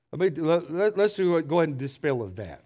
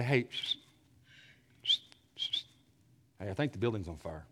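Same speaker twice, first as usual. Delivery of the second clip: hushed, softer psst and murmured warning; whisper; 6 semitones lower, 10 dB quieter than usual. Pretend. Preacher mocking a timid fire warning, whispered. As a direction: breathe the fire warning almost inaudibly. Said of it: "would you want me to come by and say".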